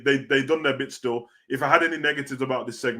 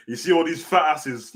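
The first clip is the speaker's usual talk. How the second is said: Scott Steiner impression; 4 semitones higher than usual. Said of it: "he said it just like Scott Steiner".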